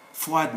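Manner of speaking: "froid" as the start of froidement, d sounded without a vowel; silent e. Shown as a demonstration. Teacher showing French adverbs, e dropped. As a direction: run the d straight on, no e after "froid". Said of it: "not froidement".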